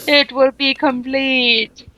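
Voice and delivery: slow gloating villain line; evil villain. Acted. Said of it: "That's actually how it sounded in my head".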